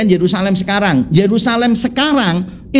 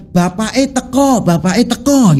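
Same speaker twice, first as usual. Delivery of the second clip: plain Javanese bapak eh teko, teko with an o; preacher demoing ordinary Javanese, standard Javanese accent; 3 semitones higher than usual. Shown as a demonstration. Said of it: "kalau orang kita itu bilang".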